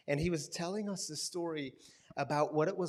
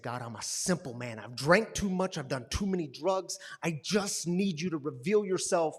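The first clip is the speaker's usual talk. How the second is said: angry prayer; 6 dB louder than usual. Retold or imitated. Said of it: "And he was so angry".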